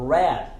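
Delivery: "rat" with T unreleased; silent final T. Shown as a demonstration. Teacher models last word, "rat" with silent T. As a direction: stop "rat" short without a T pop. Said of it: "Não pronunciamos o T".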